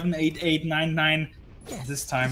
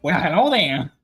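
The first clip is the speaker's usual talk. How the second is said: lightly put-on charmer; a hint of a suave flirt; smooth first-date voice; 5 dB louder than usual. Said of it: "me when I go on a first date".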